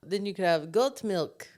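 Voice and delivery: put-on thick goat accent, like a Russian. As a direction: put on a heavy foreign goat voice. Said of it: "What was that accent?".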